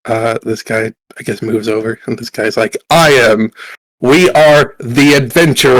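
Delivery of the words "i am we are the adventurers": lightly played proud adventurer; slow, mildly grand announcement; self-declared leader. Group leader answering who is in charge, lightly pompous declaration.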